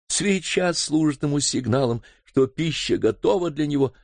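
distressed wife. Acted. Housekeeper confessing to Sir Henry about her brother, pleading.

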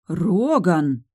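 indignant call of Роган; sincerely indignant. Acted. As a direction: scold him by name. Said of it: "искренне возмутилась я".

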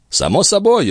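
usual speaking voice

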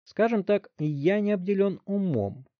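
put-on high, slow, smug boy's voice; sarcastic smugness. A narrator's reading. Teen bragging to the chief, smug and slow. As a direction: savour each word, pleased with himself. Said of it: "съязвил Вилли".

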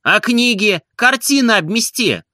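reproachful question. A narrator's reading. Барин упрекает слугу.

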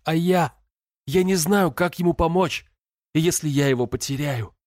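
высокая, надрывная молитва сквозь страх; молись, почти срываясь на крик; отчаянная мольба. A narrator's reading. (умоляет Бога спасти брата, в отчаянии)

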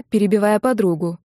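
usual speaking voice

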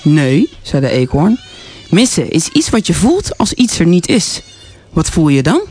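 story reading. Acted. Guest reads children's story aloud.

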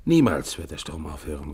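loud, frantic proclamation; shouting. Acted. Raving Evans shouting at his comrade, loud. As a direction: shout it like a madman. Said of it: "rief er".

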